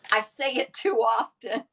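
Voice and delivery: laughing through the words. Real, not acted. Cracking herself up to Mary, laughing. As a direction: giggle it out, cracking up. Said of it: "I'm cracking myself up".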